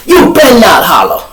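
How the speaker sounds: loud high teasing warning; hammed-up jailhouse taunt; mock taunt. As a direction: yell the joke at him. The running joke.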